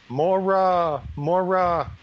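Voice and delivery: high, drawn-out ghostly calling of her name. Acted. Husband's ghost calls to his wife at night, high and ghostly.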